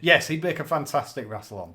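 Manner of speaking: laughing at a joke about semi-naked photos. Real, not acted. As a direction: laugh through the words. Laughing at pictures.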